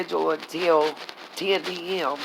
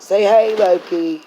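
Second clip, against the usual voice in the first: cheerful call to the dog; talking to the dog; slower than usual. Real, not acted. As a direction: coax the dog to say hi. Coaxing dog to greet viewers.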